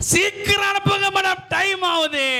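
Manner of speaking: impatient urging. Acted. Hurrying the lady.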